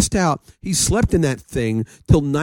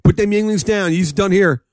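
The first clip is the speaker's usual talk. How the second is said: hammed-up Philly bouncer; Philly accent; 4 semitones higher than usual. Bouncer ordering drinkers to leave, playful Philly accent. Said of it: "Yeah, Philly accent".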